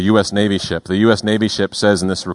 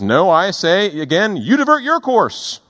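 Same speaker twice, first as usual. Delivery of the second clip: imitating the Canadian, higher and insistent; insisting radio voice; 7 semitones higher than usual. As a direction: push back firmly over the radio. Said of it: "The Canadian voice on the other side of the radio says".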